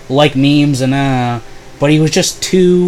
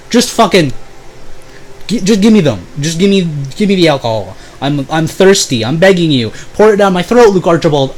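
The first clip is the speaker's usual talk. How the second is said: higher, hammed-up pleading for booze; mock drunken begging; 4 semitones higher than usual. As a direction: beg for the rum theatrically.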